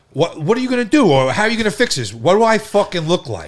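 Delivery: high, indignant re-enacted questions; worked-up mimicry of being put upon; retold exasperation. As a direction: throw the demands back in disbelief. Retelling others' demands, own exasperation.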